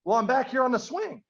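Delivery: high-pitched punchline call, lightly acted; drunk stranger calling. Drunk stranger gives away where they are, high mock call. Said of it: "the drunk guy replies".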